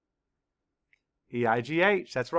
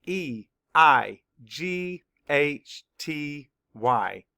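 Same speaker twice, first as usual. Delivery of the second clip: "E I G H T Y" spelled slowly, letter by letter; slow spelling; much slower than usual. Shown as a demonstration. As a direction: spell each letter slowly for young learners. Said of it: "Spell it".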